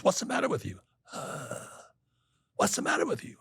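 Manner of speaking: high-pitched retold demand, lightly voiced; friend's exasperated demand.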